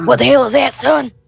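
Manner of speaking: very high, creaky, gruff, rough character voice. Voicing a character who questions what's on the plate: different voice for this character. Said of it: "I have a different voice for this character".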